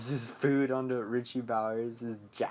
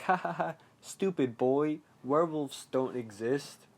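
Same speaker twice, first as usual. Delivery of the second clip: retold jeer; 3 semitones higher than usual. Other kids jeer at Richie.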